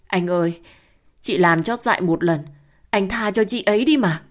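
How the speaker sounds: high, loud wheedling plea; sly pleading. Acted. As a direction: beg him sweetly, rising high at the end. Hoa pleads slyly to the husband.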